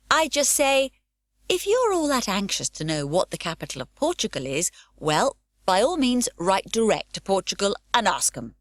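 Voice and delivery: mock-grand quote, slowing on well by all means; sassy little girl putting an adult in his place; a lightly voiced saucy girl; cheeky retort. Pippi quotes her cheeky reply.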